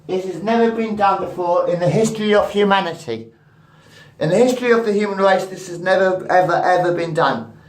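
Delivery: grand hyped reveal; hyped announcement. Real, not acted. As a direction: sell it like a world first. Hyping the experiment, rising volume.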